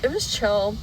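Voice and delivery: talking with a retainer in; slight lisp from retainer; wearing a retainer. Real, not acted. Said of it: "my retainer in right now".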